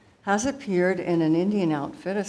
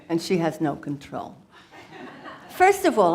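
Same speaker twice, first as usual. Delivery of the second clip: lightly voiced chatty mother guru; Guru Maya Yo Mama. Comedian's alter ego addresses the audience as a playful mother guru. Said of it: "she will take it from here".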